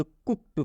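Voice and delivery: कुक्ड ending in a hard T, "kukt". Shown as a demonstration. Teacher answers how it is read, कुक्ड with a T ending. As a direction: say कुक्ड with T for the final ड. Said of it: "तो इसको क्या हम लोग पढ़ेंगे".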